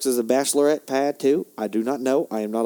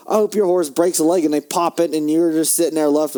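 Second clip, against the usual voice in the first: raised, worked-up ranting at the horse; heated sports rant, a bit higher and faster-paced; 5 semitones higher than usual. Real, not acted. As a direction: vent like a furious fan who got cheated. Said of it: "I'm a little bit heated".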